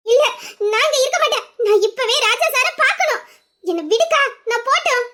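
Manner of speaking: tearful pleading. Acted. A sick young woman tearfully insisting to her sister she must see Raja. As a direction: beg through tears to go. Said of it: "நீ அழுவாதடி".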